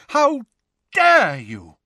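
high outraged shout; yelling while running. A narrator's reading. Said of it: "the figure shouted as she ran".

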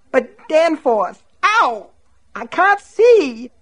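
high, slow, tearful plea; pained pleading. Acted. Myrtle pleads with Danforth, blood in her eyes, high slow plea. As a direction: beg him through the pain.

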